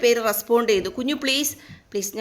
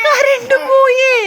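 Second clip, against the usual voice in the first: sing-song call; 13 semitones higher, 6 dB louder, slower than usual. Acted. Mother announces power cut to babies.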